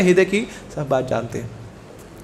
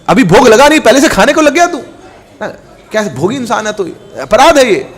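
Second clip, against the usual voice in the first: scolding himself; 4 semitones higher, 4 dB louder than usual. Acted. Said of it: "अपने आप को correct किया".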